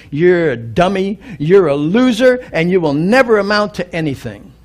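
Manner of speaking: deliberate teacher's insult spelled out; scornful put-down. Retold or imitated. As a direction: sneer down at him like a harsh teacher. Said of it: "stood up and said".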